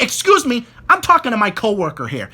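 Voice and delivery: mildly snappy retold rebuke; imitated snapping. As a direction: imitate a coworker cutting someone off. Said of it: "he snaps at the guy".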